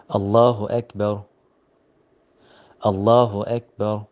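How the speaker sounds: "Allahu Akbar" with a thick lam and a heavy ra. Shown as a demonstration. Heavy Allahu Akbar, shown to a student. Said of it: "So you say".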